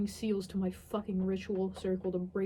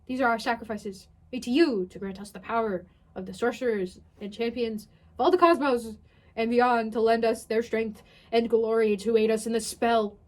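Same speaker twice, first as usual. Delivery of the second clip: mock solemn incantation; 6 dB louder than usual. Dramatic reading of incantation.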